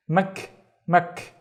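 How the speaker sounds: MAK said alone as one short syllable; syllable demonstration. Shown as a demonstration. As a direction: sound out "mak" on its own. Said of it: "let me split it in two syllables".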